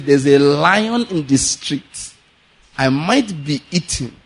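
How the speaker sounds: slow, drawn-out fearful excuse, only lightly voiced; lazy man's excuse. Preacher voicing the lazy man's fearful excuse, slow and mild. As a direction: drag it out like a lazy man afraid to move. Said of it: "this is what he does".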